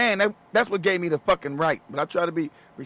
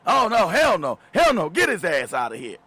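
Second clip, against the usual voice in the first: mock angry refusal. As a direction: shut him down like a mob. Mocking angry forum women.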